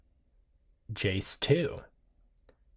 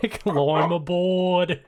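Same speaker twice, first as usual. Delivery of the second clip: hammy invitation; 4 semitones higher, 5 dB louder, much slower than usual. Pretend. Hammy character welcome.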